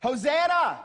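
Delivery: high, loud shout of Hosanna; crowd's shout. Retold or imitated. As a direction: cry it out like a crowd hailing its king. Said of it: "they shouted".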